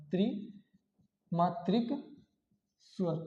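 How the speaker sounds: त्रिमात्रिक stretched slow and soft, vowels held long; drawn-out long vowel. Shown as a demonstration. Teacher stretching त्रिमात्रिक to show three-beat length.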